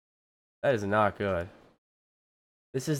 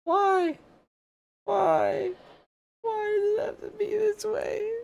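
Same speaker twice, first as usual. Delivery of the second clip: much higher, hammed-up fake sob; mock crying; 4 dB quieter, slower than usual. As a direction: wail it like a melodramatic cry. Stream broken, mock despair.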